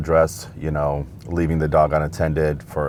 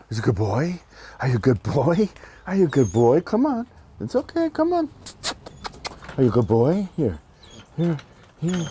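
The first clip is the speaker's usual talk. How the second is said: talking to a dog; 8 semitones higher than usual. Real, not acted. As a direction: coax the dog in a high, sweet voice. Officer greets a dog.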